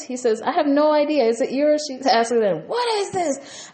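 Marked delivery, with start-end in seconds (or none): 0.4-1.8 high, loud mock-angry denial; Gino. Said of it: "he starts to yell and he's angry". 2.7-3.7 high-pitched, drawn-out mock outrage; slow, squealed imitation of an accusing demand; Yasmin. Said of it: "they're yelling and screaming".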